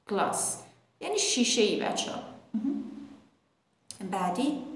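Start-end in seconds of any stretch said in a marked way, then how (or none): 0.1-0.4 British "glass" with a broad, long ah; British accent. Shown as a demonstration. (تلفظ بریتیش glass با آی کشیده)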